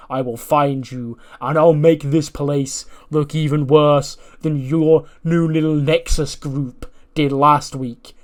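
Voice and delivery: slow, heavy mock wrestler promo; Bronson Reed promo. Wrestler calling out a rival to come face him. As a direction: lay down a slow threatening challenge. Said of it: "He goes".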